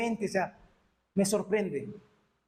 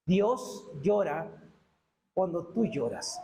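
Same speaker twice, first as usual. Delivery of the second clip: lento y más grave, bajando al final; consuelo solemne; 4 semitones lower, slower than usual. Real, not acted. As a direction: consuela despacio, con pausa. Consuela a la congregación. (consuelo lento y sereno)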